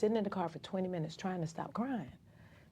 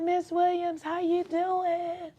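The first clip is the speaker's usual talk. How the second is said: cheerful nurse; 12 semitones higher, 5 dB louder, much slower than usual. Retold or imitated. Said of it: "She said".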